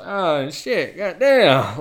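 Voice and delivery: high, wasted groaning mumble; put-on dazed, cursing drifter; crackhead's exact voice. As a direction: imitate a man whacked out of his mind. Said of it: "that's his exact voice, by the way".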